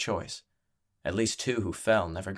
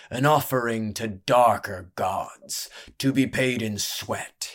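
ringmaster proclamation; 2 semitones higher, 5 dB louder, slower than usual. Acted. Ringmaster addresses crowd grandly.

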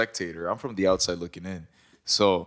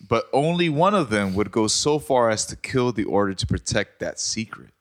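dramatic reading; 3 semitones higher than usual. Acted. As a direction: narrator voice, reading a mystery intro. Reads murder mystery intro.

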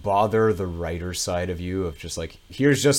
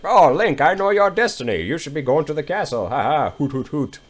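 high, bright owl with hoots; hooting owl; 6 semitones higher, 3 dB louder than usual. Retold or imitated. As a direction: chirp it out like a know-it-all owl. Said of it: "he's like".

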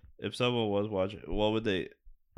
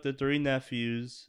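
slow emphatic; slower than usual. Real, not acted. Restating slowly for emphasis.

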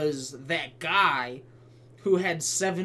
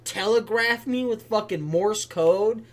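mock rant; 4 semitones higher, 3 dB louder than usual. Ranting at messaging gamer.

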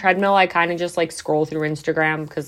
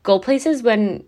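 higher-pitched mock disbelief; imitated shock; 5 semitones higher than usual. People reacting to her going out on prep, mock shocked. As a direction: act out people taken aback, lightly. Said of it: "they're kind of, like, shocked".

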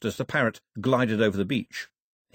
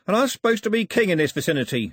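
pitched-up grumble of complaint; indignant complaint; complaining; 8 semitones higher, 4 dB louder than usual. A narrator's reading. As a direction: protest with wounded self-importance. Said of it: "he complained".

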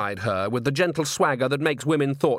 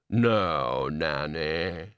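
sulky reply; 6 semitones lower, much slower than usual. A narrator's reading. Grebo's sulky low reply.

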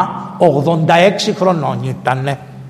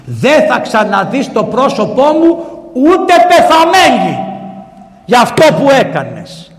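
rising, louder peak on ούτε πεθαμένη; stern rebuke; 7 semitones higher, 5 dB louder than usual. Retold or imitated. Mother condemning the emperor her son, stern angry rebuke. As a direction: pronounce the punishment with rising anger.

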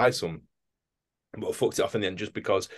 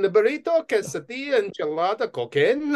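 very high, sing-song menu list; food hawker; 12 semitones higher than usual. Retold or imitated. Vendor lists food, then cocaine.

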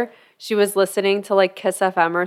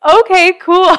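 unimpressed; 11 semitones higher, 8 dB louder than usual. Retold or imitated. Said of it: "And everyone's like".

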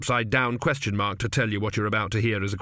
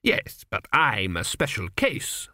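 ordinary delivery

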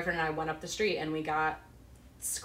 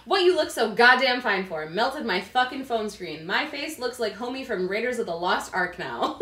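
livelier and louder, hamming up the read; with more personality; 3 semitones higher, 3 dB louder than usual. Shown as a demonstration. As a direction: give the text some real attitude. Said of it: "let me put more personality into it".

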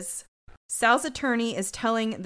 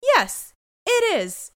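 mock Sal; 11 semitones higher, 6 dB louder, much slower than usual. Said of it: "Sal's like".

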